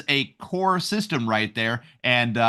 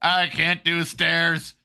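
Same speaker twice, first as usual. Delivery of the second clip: robot voice; 2 semitones higher, much slower than usual. Retold or imitated. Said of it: "Stephen Hawking's rolling up there".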